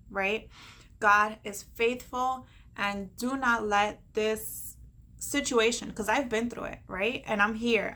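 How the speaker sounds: rally them like a preacher; uplifting pep talk. Acted. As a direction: motivational sermon tone. Encourages viewers like a preacher.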